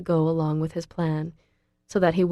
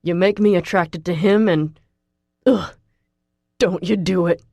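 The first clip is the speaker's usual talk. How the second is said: pleading; 3 dB louder than usual. A narrator's reading. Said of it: "he pleads with me".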